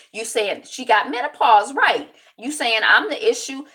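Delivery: imitating Diva D snapping back at the cast; defiant Diva D. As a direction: throw the blame right back at them. Diva D's defiant comeback.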